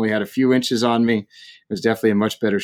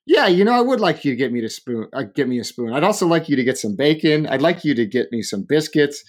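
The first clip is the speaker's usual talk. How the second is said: higher-pitched, piled-up complaints; exasperated rant; 4 semitones higher than usual. Retold or imitated. Hungry guest answering the waitress's spoon offer, exasperated. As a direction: rattle off demands as a fed-up customer.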